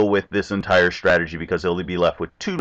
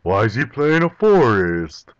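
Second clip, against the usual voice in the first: mock opponent confusion; 3 semitones higher, slower than usual. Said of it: "which he's gonna be like".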